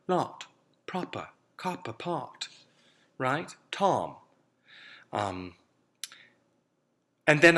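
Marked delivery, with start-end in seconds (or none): 0.1-2.5 lot, proper, copper, pot with rounded lips, an O-like vowel. Shown as a demonstration. Accent coach demonstrating the rounded RP vowel in lot. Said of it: "sounds a little more like a O sound".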